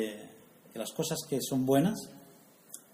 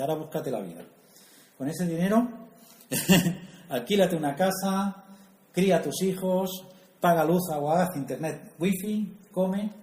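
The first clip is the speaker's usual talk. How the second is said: higher, louder mock lecture to the princess; bossing her about, hammed up; mock stern order; 4 semitones higher, 4 dB louder than usual. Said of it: "le das seiscientos euros al mes y dice". (orden burlona, más aguda y fuerte)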